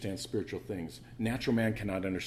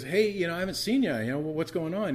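surprised psychiatrist; 7 semitones higher than usual. Retold or imitated. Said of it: "and he says".

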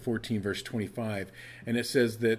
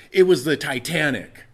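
louder, matter-of-fact retort; loud deadpan answer; 5 semitones higher, 9 dB louder than usual. Retold or imitated. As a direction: fire the punchline back loudly. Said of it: "And the Chinese man says".

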